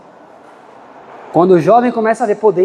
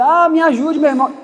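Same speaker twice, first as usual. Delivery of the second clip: anxious plea; 6 semitones higher than usual. Retold or imitated. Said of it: "E a mãe começou a ficar aflita".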